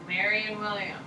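Mary named first, the unusual order; wrong word order. Shown as a demonstration. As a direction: says Mary before William, to be corrected. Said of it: "That's the phrase we usually say".

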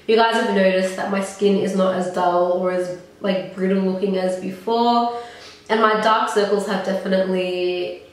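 stuffy, nasal voice; talking through a blocked nose. Real, not acted. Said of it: "I apologize for this nasally voice".

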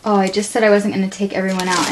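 usual speaking voice

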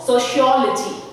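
"sociology" stressed on "ol", just before "logy". Shown as a demonstration. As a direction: lean on the "ol" in "sociology". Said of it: "I'm stressing here just before logy".

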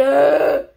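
drawn-out exasperated "ugh"; annoyed groan. Real, not acted. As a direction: groan in frustration. Annoyed at off-centered cards.

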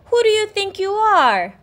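high, loud haughty outburst; indignant cry. Acted. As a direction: snap at him in outrage. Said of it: "cried the Rainbow Fish".

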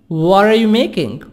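WHAT ARE linked as 'whadda'; American flapped T in 'what are you making'; soft D T. Shown as a demonstration. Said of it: "What a T soft D".

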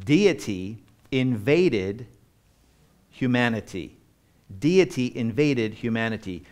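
"Deity invaded humanity" drawn out, each word weighted; slow emphatic repetition. Shown as a demonstration. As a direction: lean on "Deity" slowly. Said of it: "repeated for emphasis".

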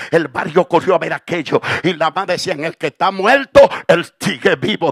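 loud, driving testimony building in force; relentless loud pulpit storytelling; full-force preaching. Real, not acted. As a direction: preach the miracle with mounting intensity.

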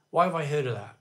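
unvoiced whisper to himself; hushed musing whisper, no voice. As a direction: breathe it as a secret aside. Repeats question to himself in whisper.

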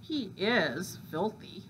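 slow, thinking aloud; musing to himself. Acted. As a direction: weigh it up privately. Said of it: "the fox said to himself".

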